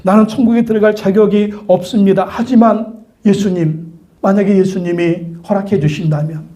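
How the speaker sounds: acted plea for mercy; earnest confession. Dying convict confesses faith to Jesus, earnest. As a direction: confess humbly, measured and sincere. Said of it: "예수님께 고백하는 거죠".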